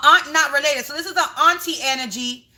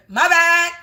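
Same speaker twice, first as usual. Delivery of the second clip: louder, laughing it off; laughing apology; 4 semitones higher, 5 dB louder than usual. Real, not acted. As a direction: laugh through a sheepish sorry. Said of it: "Did I just fucking snitch".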